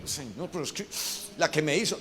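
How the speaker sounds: soft, reluctant objection to God; meek protest. Acted. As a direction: plead back in a small, quiet voice. Believer pleading back to God.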